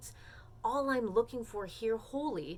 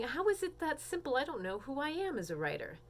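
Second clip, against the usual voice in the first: higher-pitched mock protest, easing down; imitated baffled student; 5 semitones higher than usual. Student questioning the teacher's simple assignment, lightly mock-baffled. Voices doubtful students' reaction.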